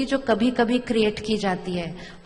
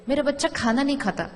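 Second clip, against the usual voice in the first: fond complaint; 3 semitones higher, faster than usual. Retold or imitated. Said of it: "वो बहुत प्यार से कहते हैं".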